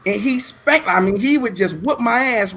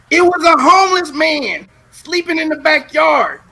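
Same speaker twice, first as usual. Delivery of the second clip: excited laughing; 8 semitones higher, 6 dB louder than usual. Real, not acted. Punchline of the story.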